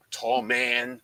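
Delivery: low retold deadpan; mom's deadpan correction. Mom corrects herself to her son, deadpan. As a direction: drop it low, mimicking an unbothered mom. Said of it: "Like that".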